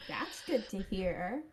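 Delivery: flat, emotionless delivery; blank. Acted. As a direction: say it with no feeling at all. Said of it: "I said blankly".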